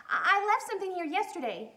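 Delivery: put-on high, fast little girl; eager girl. Lisa at the laundromat door, high and eager. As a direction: hurry it out nervously. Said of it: "she explained".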